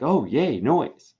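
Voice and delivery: mock cheer. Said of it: "I mean, not yay".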